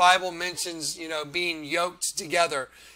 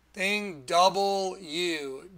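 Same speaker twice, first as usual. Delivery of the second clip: "double U" drawn out slowly; much slower than usual. Shown as a demonstration. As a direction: stretch "double U" slowly with a rise. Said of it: "that's why they make that".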